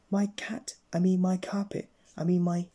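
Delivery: high flustered exclaiming; exclaimed. Acted. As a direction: blurt it out, flustered. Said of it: "exclaimed Mister Topsy-Turvy".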